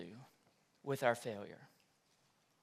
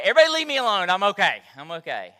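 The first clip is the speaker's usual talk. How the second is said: embarrassed laugh; 8 dB louder, much faster than usual. Retold or imitated. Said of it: "I was like".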